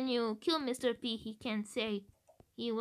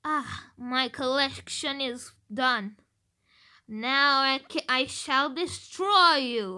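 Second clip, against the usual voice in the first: gloating villain; 7 dB louder than usual. Retold or imitated. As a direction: boom out the victory line. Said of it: "he can say".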